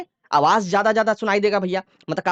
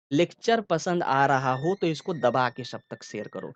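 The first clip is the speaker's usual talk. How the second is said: slow, lower, drawn-out delivery; slow, unhurried speech; 5 semitones lower, 4 dB quieter, slower than usual. Shown as a demonstration. Teacher showing students how a long wave forms, slow and unhurried. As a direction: stretch the words out at a leisurely pace. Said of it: "आराम आराम से बोल के, जैसे मैं बोल रहा हूँ".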